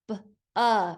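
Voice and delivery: "b, uh" sounded out, the uh short and neutral; schwa sound. Shown as a demonstration. Teacher sounding out balloon for spellers, separate b and schwa "uh". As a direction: isolate b, then the schwa "uh". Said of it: "We've got the schwa".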